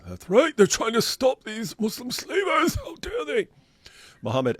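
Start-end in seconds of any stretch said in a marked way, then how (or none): 0.1-3.5 high, shouted sarcasm; sarcastic mock outrage. Real, not acted. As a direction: fake indignation to mock the claim. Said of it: "sarcastic outrage".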